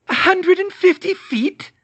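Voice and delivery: high, slow, loud disbelief; incredulous witch. Acted. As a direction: draw it out in disbelief. Bellatrix incredulous.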